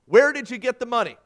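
firm judge's question. A narrator's reading. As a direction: put the question loudly and firmly. Judge's first question, before raising voice.

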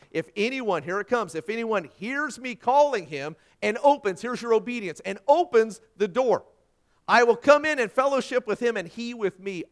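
loud, high pulpit proclamation; forceful preaching. Acted. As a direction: proclaim the verse with mounting force.

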